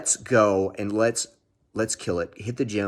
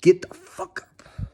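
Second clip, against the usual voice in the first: higher, slow hype shout; Ice Cold J T catchphrase; 7 semitones higher than usual. Retold or imitated. Shouting Ice Cold J T's line at viewers, higher and slow. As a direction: belt it like a hype man. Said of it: "as Ice Cold J T would say".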